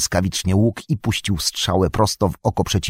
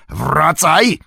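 high, raised shout of command; yelling; 5 semitones higher than usual. Acted. Orc warrior calling back the fleeing tracker, yelling. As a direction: yell after someone running off. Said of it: "Wrzasnął bojowy ork".

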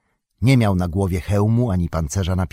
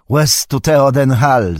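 loud, higher, slow hail to the king; ringing salute; 4 semitones higher, 5 dB louder than usual. A narrator's reading. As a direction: hail him with a slow proud shout. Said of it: "zawołał Eomer".

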